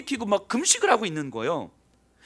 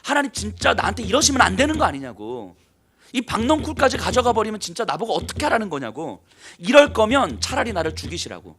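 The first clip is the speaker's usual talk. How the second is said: louder, heated protest to God; angry complaint; 2 semitones higher, 3 dB louder than usual. Acted. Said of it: "하나면서 하나님 앞에 막 화를 내요". (하나님께 씩씩대며 불평하는 요나)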